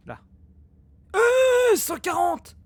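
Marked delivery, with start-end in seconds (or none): 1.1-2.6 startled cry. Real, not acted. Sudden threat in game.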